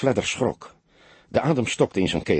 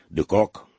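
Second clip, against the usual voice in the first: sleepy. A narrator's reading. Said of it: "Het klonk slaperig".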